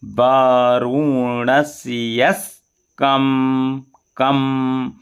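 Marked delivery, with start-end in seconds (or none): 0.0-3.8 वारुणस्यस कम with the k joined slowly; slow careful joining. Shown as a demonstration. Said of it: "कोशिश कर ले". (धीरे जोड़कर उच्चारण)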